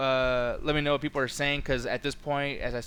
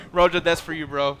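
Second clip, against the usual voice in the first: louder call across the room; 6 dB louder than usual. Real, not acted. Streamer calling out to Roger, louder call.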